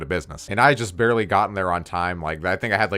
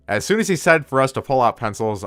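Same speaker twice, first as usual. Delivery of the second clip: ordinary delivery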